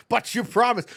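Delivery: high, quick imitated complaint; mock protest. Voicing a viewer's protest, first take.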